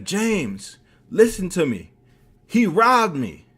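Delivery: high, loud mock-tearful plea; hammed-up upset accusation; tearful pleading. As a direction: imitate a distraught man begging to be believed. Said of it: "looks at me with tears coming down his eyes".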